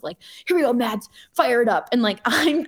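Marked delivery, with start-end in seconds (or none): 0.5-1.9 mild mock yell at yourself; self hype yell. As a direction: hype yourself up like somebody else would. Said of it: "yelling at myself".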